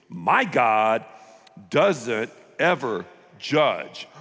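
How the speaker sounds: slow, smug and self-assured. Acted. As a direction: preach your own easy god smugly. Mocking self-made god believer.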